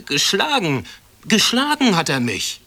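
put-on loud, high child's accusation; accusing cry. A narrator's reading. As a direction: point and cry it out to the headmistress. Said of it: "zeigte auf Herrn Schoppenstecher und rief".

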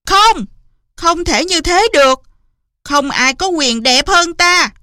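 outraged, high-pitched yelling; furious shout. A narrator's reading. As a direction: explode in anger as the jealous queen. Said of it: "đùng đùng nổi giận thét lớn".

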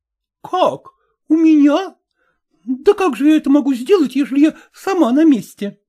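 indignant exclamation. A narrator's reading. Marina refusing to take in Agrafena, indignant outcry. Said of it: "воскликнула Марина".

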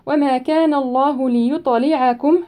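ليطلعكم with the ط bounced in a small echo; slow recitation, bouncing the ط of ليطلعكم; ليطلعكم with qalqala on the ط. Shown as a demonstration. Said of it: "ليطلعكم هنا الطاء مقلقلة".

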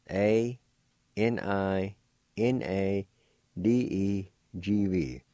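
spelled out slowly. Shown as a demonstration. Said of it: "It's spelled like this".

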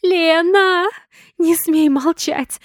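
high, loud demand, slow on не смей; desperate shout. A narrator's reading. Sonya yells at silent Lena, desperate. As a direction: shake her awake with your voice.

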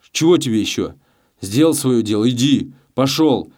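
громко, всё выше к концу; прогнать его, срываясь на крик; злой окрик. A narrator's reading. Челкаш гонит Гаврилу прочь. (Челкаш злобно гонит Гаврилу прочь, громко)

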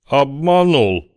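slow, ominous big man. A narrator's reading. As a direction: drag it out with menace. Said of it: "зловеще произнёс невидимый здоровяк".

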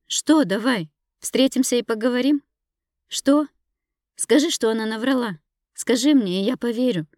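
high, loud, pleading and furious; desperate shouting. Acted. Wife begging her husband to deny it, shouting. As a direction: beg him to deny it, shouting.

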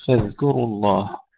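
فاذكروا الله with a thin k and clear dh; light kaf. Shown as a demonstration. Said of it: "مع ترقيق الكاف أيضًا". (فاذكروا الله بكاف مرققة)

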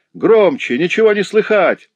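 high, loud jeering yell; mocking shout. A narrator's reading. Lame boy jeers at the fight below, yelling. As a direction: holler down the stairs to heckle. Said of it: "крикнул хромой мальчишка".

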